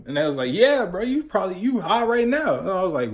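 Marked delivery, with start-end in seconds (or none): 0.5-2.6 friend's voice. Retold or imitated.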